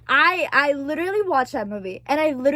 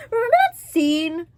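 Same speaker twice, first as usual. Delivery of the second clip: tearful; 2 semitones higher, 3 dB louder than usual. Real, not acted. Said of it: "I'm just crying".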